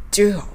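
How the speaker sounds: crisp English do, lips rounded; 前歯を出して do; demo pronunciation. Shown as a demonstration. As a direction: do with front teeth out. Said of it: "一緒にやってみましょう".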